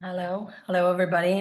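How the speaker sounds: slightly rough, sore throat voice; speaking through a sore throat. Real, not acted. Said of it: "I have a sore throat, so my voice is a little bit funny today".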